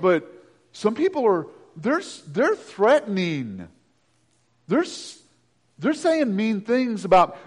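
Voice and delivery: mock anxious whine to God; hammed-up fretting prayer; prayerful whining. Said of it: "Prayerful whining".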